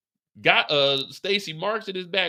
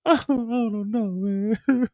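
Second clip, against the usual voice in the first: laughing through it; 6 semitones higher, slower than usual. Retold or imitated. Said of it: "Mireya's like".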